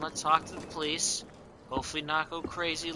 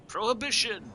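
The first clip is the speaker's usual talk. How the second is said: excited exclamation; 9 semitones higher, 5 dB louder than usual. Real, not acted. Reading sign aloud, excited.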